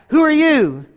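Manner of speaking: high echo thrown back; cave echo. Acted. Cave repeating the boy's question, high echo. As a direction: mimic an echo in a high call. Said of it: "And it came back".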